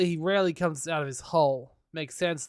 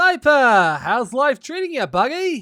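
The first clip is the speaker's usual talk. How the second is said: booming, loud, high mock cheer; 8 semitones higher, 9 dB louder than usual. Reading a game character's greeting over a call: dripping with mock enthusiasm. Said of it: "A voice dripping with mock enthusiasm".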